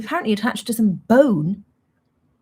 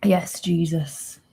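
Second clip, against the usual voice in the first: whisper; much slower than usual. Real, not acted. Exasperated aside to the chat.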